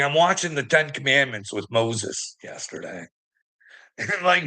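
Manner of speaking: normal talking voice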